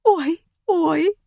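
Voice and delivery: hammed-up narrated sobbing "ой". A narrator's reading. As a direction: sob it out theatrically. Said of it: "всхлипывала Фатима".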